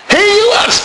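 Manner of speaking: high, strained mock shout to the crowd; shouted call. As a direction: call out to the lads, voice cracking. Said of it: "He shouted this stuff".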